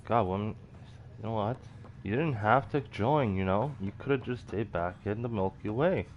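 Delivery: loud exasperated scolding. Real, not acted. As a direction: tell her off, fed up. Scolds game character, exasperated.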